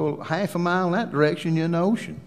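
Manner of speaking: high, animated retelling with swooping pitch; comic exasperation. Retold or imitated. Preacher telling Ann how remote the church is, comically exasperated.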